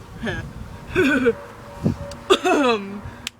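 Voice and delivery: loud, puffed-out silly laugh; odd forced laugh. Real, not acted. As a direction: let out a few separate huffed laughs. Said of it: "jeg ved ikke lige, hvorfor jeg gjorde det der".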